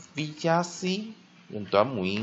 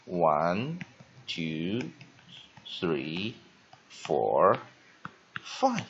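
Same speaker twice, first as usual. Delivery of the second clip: counting out; 4 semitones lower, much slower than usual. Shown as a demonstration. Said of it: "break them five syllables".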